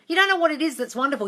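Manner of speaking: usual speaking voice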